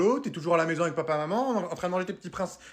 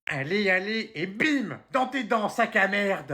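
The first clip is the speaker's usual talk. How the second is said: high-pitched triumphant gaming cries; noisy gamer excitement; 4 semitones higher, slower than usual. Acted. Boy yelling at his video game, noisy excitement. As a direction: crow excitedly at every hit. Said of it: "baisse d'un ton, j'entends rien".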